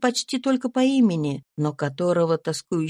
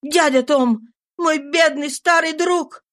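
higher, louder grieving call; anguished cry; 7 semitones higher, 4 dB louder than usual. A narrator's reading. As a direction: cry out to a dying friend. George finds dying Tom.

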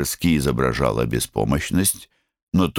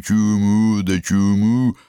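капризная сестрёнка; 8 semitones higher, 4 dB louder, slower than usual. Retold or imitated. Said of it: "А ты ему только".

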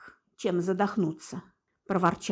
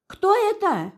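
call upward; 11 semitones higher, 4 dB louder than usual. A narrator's reading. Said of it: "крикнул".

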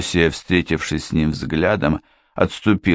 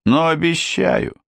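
raised, solemn pledge; solemn promise; 11 semitones higher than usual. A narrator's reading. Uninvited guest promising to leave, solemn and raised in pitch. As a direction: pronounce it as a solemn vow. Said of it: "торжественно проговорил незваный гость".

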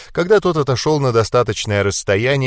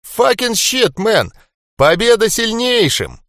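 mocking outburst; 12 semitones higher, 4 dB louder than usual. Johnny guffawing, mocking.

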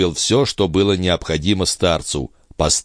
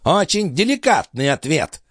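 sneering; 10 semitones higher than usual. A narrator's reading. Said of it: "с язвительной ухмылкой".

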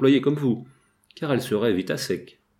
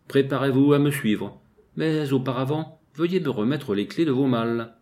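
en enflant la voix; 4 semitones higher than usual. Acted. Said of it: "en enflant la voix".

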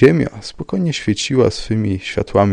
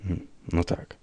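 dry; 9 dB quieter than usual. A narrator's reading. Commissioner unimpressed by Rybka's mystery, dry. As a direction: concede it drily, without interest. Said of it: "rzekł sucho komisarz".

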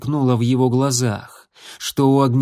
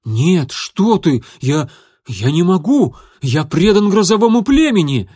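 louder, rising frantic protest; panicked refusal; 5 semitones higher, 6 dB louder than usual. A narrator's reading. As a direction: back away in a panic. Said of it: "неподдельный ужас".

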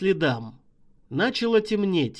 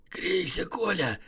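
soft, hoarse urging; hoarse hiss; 4 dB quieter than usual. Acted. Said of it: "сиплым голосом прошипел Шайба".

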